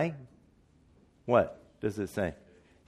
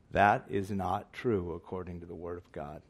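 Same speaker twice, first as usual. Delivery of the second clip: low, measured statement so it sinks in; slow, deliberate; 4 semitones lower, 4 dB quieter than usual. Real, not acted. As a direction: say it deliberately, in a lower voice. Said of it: "say this a little bit slowly".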